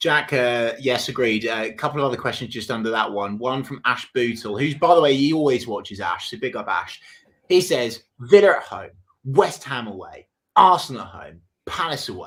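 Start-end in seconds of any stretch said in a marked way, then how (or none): 8.2-12.3 put-on reading delivery, loud and aggressive. Reading out a viewer's list of fixtures: imitating an aggressive delivery. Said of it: "with aggression as well".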